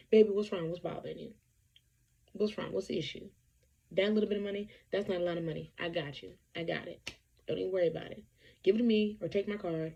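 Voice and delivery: a hint of a caring man reassuring his woman; lightly voiced doting boyfriend. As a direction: lightly act out a man who says he's got it covered. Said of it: "That's how they talk".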